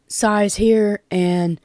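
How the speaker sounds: breathless, running out of air; out of breath. Real, not acted. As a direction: talk while short of breath. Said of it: "I'm losing my breath".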